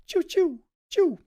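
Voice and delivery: sharp high "choo" arrow sounds; arrow whoosh. Pretend. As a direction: spit out quick arrow whooshes. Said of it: "Make the arrow sound effects".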